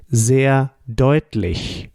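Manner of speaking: "sehr deutlich" said slowly, each syllable distinct; slow and clear. Shown as a demonstration. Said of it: "Sehr is very and deutlich is clearly".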